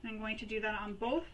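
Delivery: talking around a pen held in the teeth; slightly muffled, pen between lips; pen in mouth. Real, not acted. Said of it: "Sorry, I had my pen in my mouth".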